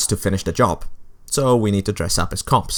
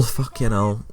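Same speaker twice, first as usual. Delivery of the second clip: resigned curse; 4 dB quieter than usual. Real, not acted. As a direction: swear under your breath, resigned.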